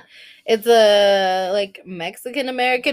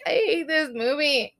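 higher, small tearful voice; mock whimper; 4 semitones higher, 4 dB quieter than usual. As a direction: whimper it as if sulking through tears. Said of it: "I could watch a commercial and cry".

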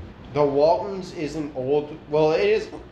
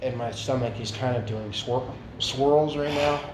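talking with the hiccups; words broken by hiccups; 3 semitones lower, 4 dB quieter than usual. Real, not acted. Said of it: "I have the hiccups".

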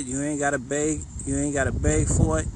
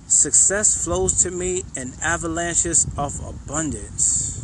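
slow affirmation; slower than usual. Shown as a demonstration. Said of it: "The next one".

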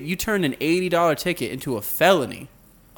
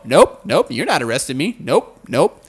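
defiant refusal; 6 dB louder than usual. Retold or imitated. Defiant driver refusing arrest.

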